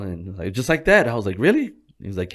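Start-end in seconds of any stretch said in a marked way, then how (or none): 1.4-1.7 high, loud rising question; acting surprised. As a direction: replay astonishment with a big upward leap. Surprised at coworker's advice, retold.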